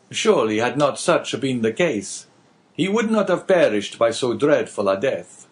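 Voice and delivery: a hint of a grave abbé probing gently. Priest questioning the innkeeper, lightly voiced and earnest.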